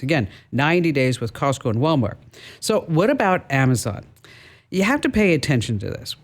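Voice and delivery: scripted consumer-advice radio read; radio tip read. Real, not acted. Host advising listeners on laptop returns, lightly polished radio read. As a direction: present it like a prepared radio segment.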